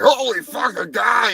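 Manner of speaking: the bear jumps at spotting the man; startled bear shout. Retold or imitated.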